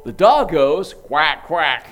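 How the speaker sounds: a toy record skipping to the wrong sound; mock broken toy saying quack. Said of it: "it'll go".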